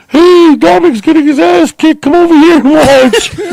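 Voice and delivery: high, loud yell across the street; excited calling out. Retold or imitated. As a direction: holler to round up the other kids. Friends calling others to watch beating.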